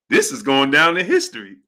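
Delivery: laughing as you retell the line. Retold or imitated. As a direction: quote it through laughter. Retelling a quote while cracking up.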